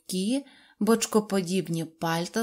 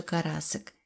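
ordinary delivery

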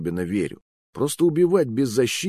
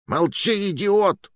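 sharp, high angry rebuke; angry hiss; 12 semitones higher, slower than usual. Acted. Fat man snaps at partner to shut up, angrily. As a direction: cut him off hard.

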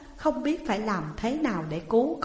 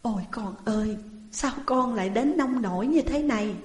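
crying parents; 3 semitones higher than usual. Acted. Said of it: "Vợ chồng ông Hà khóc".

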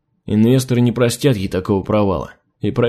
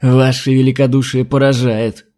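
sarcastic; 3 dB louder than usual. Acted. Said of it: "язвительно прошипела адмирал".

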